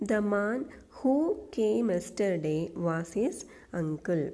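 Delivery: slow, deliberate exam question read-out; slow dictation reading. Shown as a demonstration. Teacher reading a PSC question aloud slowly. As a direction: read each word slowly for the class. Reads answer sentence slowly.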